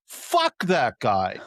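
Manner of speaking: slow, emphatic retort; blunt dismissal. Retold or imitated. Cab driver answering about Trump, slow and blunt. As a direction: imitate the driver's weighty verdict, each word drawn out. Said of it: "guy driving's Russian".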